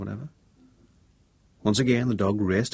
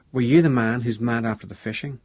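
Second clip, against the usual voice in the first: put-on Ulster accent; 3 semitones higher, 6 dB louder than usual. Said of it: "She put on an Ulster accent rather well".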